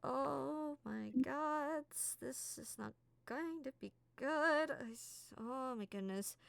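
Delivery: fretting this will go badly; Key pacing, clutching her face; panicked councilwoman. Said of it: "She's like".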